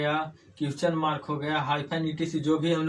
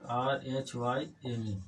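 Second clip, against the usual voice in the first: slow, softer, letter by letter; name each letter separately, as if writing it; spelling aloud; 3 semitones lower, 7 dB quieter, slower than usual. Shown as a demonstration.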